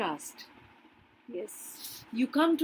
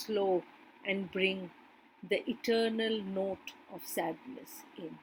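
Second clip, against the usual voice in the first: poem reading. Acted. Teacher reading Dover Beach aloud to the class, measured. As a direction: read it like a poem, savouring each line.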